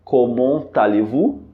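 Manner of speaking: "Comment allez-vous?" slowly, t linked to "allez"; careful "comment-t-allez-vous"; slow French demo. Shown as a demonstration. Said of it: "nós utilizamos a frase".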